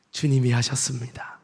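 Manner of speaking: breathy unvoiced confession; whisper. Real, not acted. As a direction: hush it as a humble confession. (속삭이듯 겸손하게)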